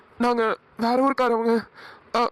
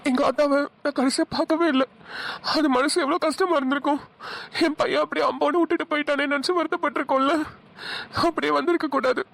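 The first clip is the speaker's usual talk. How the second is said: higher-pitched, grieving voice; anguished regret; 3 semitones higher than usual. Acted. Son laments leaving his mother without goodbye, anguished regret. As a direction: lament with heavy breaths between phrases.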